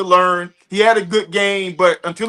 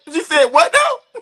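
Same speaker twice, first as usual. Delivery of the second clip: mock disbelief; 8 semitones higher, slower than usual. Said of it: "I'm like".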